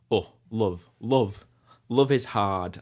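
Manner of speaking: sing-speak "love" with a broad Burnley U; Burnley "Oh, love, love, love is hard", U shifted toward Burnley; Burnley accent. Shown as a demonstration. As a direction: croon it the Burnley way, love stretched. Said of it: "the Burnley U is a bit, um, it's a bit more".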